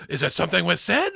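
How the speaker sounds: lightly squeaky French comic sidekick; silly put-on French voice; mock French accent. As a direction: imitate a hacky sidekick with a touch of French accent. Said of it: "doing a French accent, having inhaled helium".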